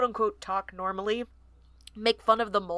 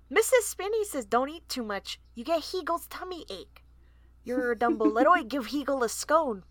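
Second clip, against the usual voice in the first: little mole voice; 4 semitones higher than usual. Acted. Baby mole voiced with accent.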